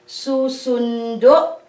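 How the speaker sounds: susundo said slowly, syllable by syllable; slow teacher's demo of susundo; slow demonstration. Shown as a demonstration. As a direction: spell out susundo slowly for the class. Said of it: "So we copy this one".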